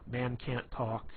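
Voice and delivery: a hint of a dopey dimwit voice; mock dim-witted. Shown as a demonstration. Playing into someone's sarcasm, a mild mock-dumb drone. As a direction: play dumb on purpose, lightly. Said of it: "act like you're a complete retard and be like".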